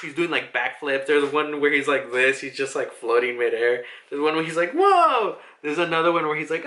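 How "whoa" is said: high, loud mock yelp of surprise; acted alarm. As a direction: yelp it as if narrowly dodging. Acting a startled dodger.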